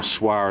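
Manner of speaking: "swar" spoken as one word rhyming with car; SWR said as swar. Shown as a demonstration. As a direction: say "swar" as a single word, not letters. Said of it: "as we call it".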